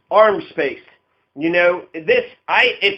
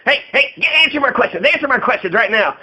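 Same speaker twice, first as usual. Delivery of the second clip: mock pushy reporter; 4 semitones higher than usual. Mock reporter demanding answers.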